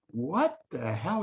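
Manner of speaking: breathless slow whisper of disbelief; a hushed, slow what the hell; stunned whisper. Retold or imitated. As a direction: whisper it, caught off guard. Guy stunned by dad's question.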